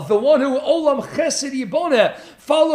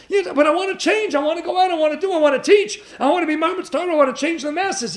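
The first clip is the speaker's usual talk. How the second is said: higher, eager protest; pleading Yitzchak; 5 semitones higher than usual. Acted. Yitzchak pleading against being told to stay, higher and eager. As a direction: beg to be let out into the world. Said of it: "Yitzchak Avinu was told".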